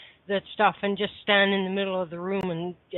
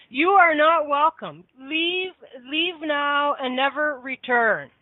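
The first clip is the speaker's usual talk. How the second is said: mummy voice; 4 semitones higher, slower than usual. Acted. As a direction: order the spirits out like a strict mother. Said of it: "it's time to put on the mummy voice".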